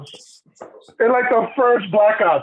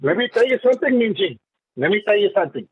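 lightly voiced boxer impression; Oscar De La Hoya voice. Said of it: "that's Oscar De La Hoya".

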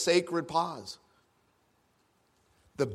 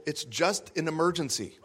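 quoting myself, laughing; 4 dB quieter than usual. Retold or imitated. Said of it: "and I'm quoting myself".

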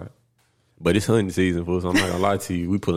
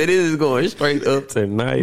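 slow, hyped party bro drawl; frat bro; 5 semitones higher, slower than usual. Acted. Hype voice, unnamed.

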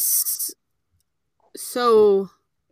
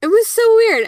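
weirded out; 12 semitones higher, 8 dB louder than usual. Real, not acted. Recalling strange thick water.

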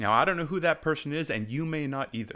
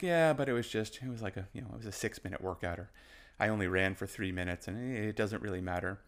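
quieter, lower mock downplaying; dismissive self-talk; 3 semitones lower, 4 dB quieter than usual. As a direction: shrug it off as if it were nothing. Voicing someone downplaying own workout.

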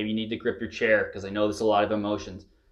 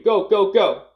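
loud, high chant of go, driving them on; shouted encouragement; 7 semitones higher, 6 dB louder than usual. Real, not acted. Coach cheering screaming participants on, loud high shout. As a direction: yell go go go over the group's screams.

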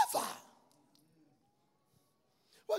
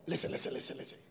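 laughing mimic; 8 semitones lower, faster than usual. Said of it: "he said".

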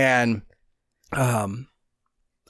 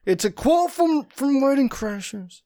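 heated family shouting; 10 semitones higher than usual. Retold or imitated. Pleading with mom as teen.

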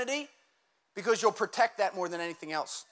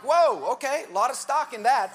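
mock surprise; 4 dB louder than usual. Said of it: "And you're like".

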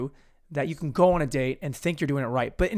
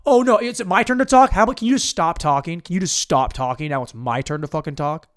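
mock aggro interruption; 6 dB louder than usual. Guy cuts her off on air, loud mock-irritated interruption. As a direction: cut in loudly, hammed-up irritation. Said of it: "He cuts her off and goes".

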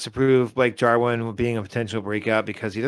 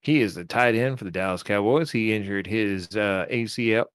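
easygoing mock-Texan delivery; Texas accent; 2 semitones lower than usual. Podcaster explaining the tight end's injury, put-on Texas accent. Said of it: "Does it sound like a Texas accent".

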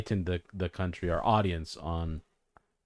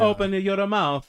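mock sleazy come-on; 7 semitones higher, slower than usual. Sleazy governor impression continues.

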